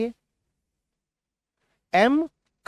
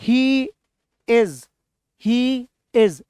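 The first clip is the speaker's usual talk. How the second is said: call and response; 3 semitones higher, 3 dB louder, much slower than usual. Shown as a demonstration. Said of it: "बोलिए मेरे साथ".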